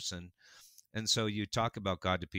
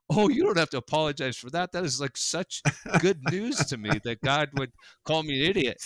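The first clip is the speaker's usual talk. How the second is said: higher and louder, gushing with glee; delighted retelling; 6 semitones higher, 6 dB louder than usual. Retold or imitated. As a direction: burst out happily, like good news just landed. Overjoyed reply retold, high and loud.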